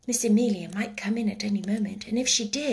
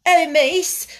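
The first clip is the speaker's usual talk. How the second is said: high, loud, panicked maid; breathless sob, stuttering; 8 semitones higher, 8 dB louder, slower than usual. A narrator's reading. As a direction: cry out as if close to sobbing. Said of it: "sound like a breathless sob".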